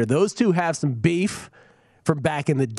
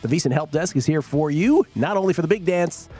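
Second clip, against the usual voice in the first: put-on old newsreel narrator; 2 semitones higher than usual. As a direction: read it like a 1940s newsreel. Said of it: "With the old-timey voice".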